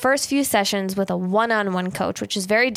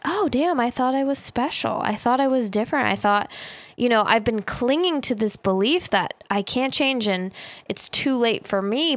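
mock disappointment; 3 semitones higher than usual. Ego voicing mock disappointment after the coaching call. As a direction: play the ego, deflated to learn it is ordinary. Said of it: "my ego is almost a little disappointed".

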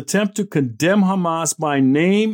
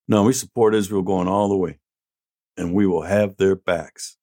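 usual speaking voice

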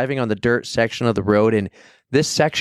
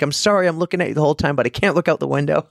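high, pleading repeated apologies; mimicking a panicky woman saying sorry, pitched up; apologetic frightened woman; 4 semitones higher, much faster than usual. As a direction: imitate the nervous driver begging forgiveness. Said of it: "And she's like".

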